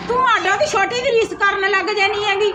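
nagging mother-in-law sending her to work; scolding. Acted. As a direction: tell her off with no sympathy. Mother-in-law scolds other daughter-in-law.

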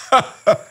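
short, high burst of laughter; amused laugh. A narrator's reading. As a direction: break into a brief high laugh after talking. Caliph still amused by the storks. (kurzes, hohes Auflachen)

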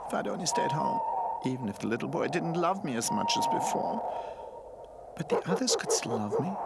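high, tearful little voice; crying to sleep. A narrator's reading. Lonely toy regrets leaving home, crying himself to sleep. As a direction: lament in a small high cry. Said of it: "he slowly cried himself to sleep".

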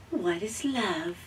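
soft, wondering little robot; small robot voice. Acted. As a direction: ask it softly, wide-eyed robot. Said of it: "asked the young robot".

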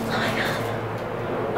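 slow, breathless whisper; stunned whisper. Real, not acted. Whispering slowly at the gift in awe.

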